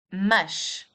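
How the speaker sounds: Mas ending in a sh sound, like mash. Shown as a demonstration. Teacher modelling Mas for learners, final sh. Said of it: "The S in the end of a word produces the sh sound".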